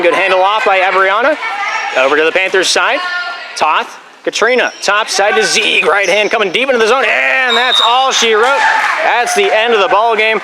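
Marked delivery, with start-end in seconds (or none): 3.6-10.4 live play-by-play. Real, not acted. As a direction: rally call stretched out at the finish.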